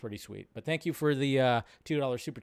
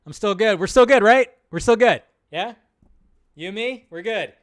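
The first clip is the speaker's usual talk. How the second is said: higher, louder pleading to the studio; voicing the director; 4 semitones higher, 7 dB louder than usual. Imitating director pleading with Warner Brothers, hammed-up. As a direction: play him nervously sucking up to Warner Brothers. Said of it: "He's still trying to be like".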